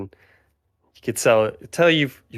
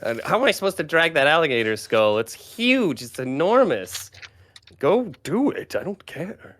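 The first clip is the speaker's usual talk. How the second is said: fast, higher whiny rat grumble; grumbling rat; 6 semitones higher than usual. Acted. Rat familiar grumbling at the party about hauling, whiny and fast. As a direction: complain like a put-upon little rat.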